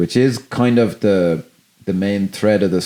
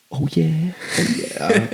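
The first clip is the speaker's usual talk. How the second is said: higher, knowing and dismissive; sly oh yeah; 7 semitones higher, 4 dB quieter, slower than usual. Retold or imitated. Imitating Bernie Mac brushing him off, a sly oh yeah. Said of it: "the way he says that".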